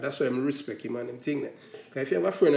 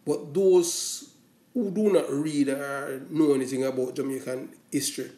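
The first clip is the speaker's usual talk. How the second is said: usual speaking voice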